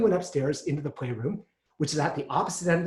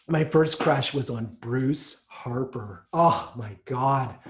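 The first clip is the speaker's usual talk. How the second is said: dreamy; much slower than usual. Real, not acted. Dreamy crush memory.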